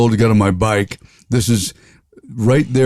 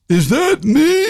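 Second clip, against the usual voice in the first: surprised; slower than usual. Retold or imitated. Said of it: "what everybody says when they hear their voice".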